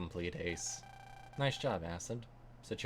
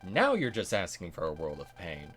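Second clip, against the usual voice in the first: angry threat; 3 semitones lower, 6 dB louder than usual. Acted. Threatening the teasing rival.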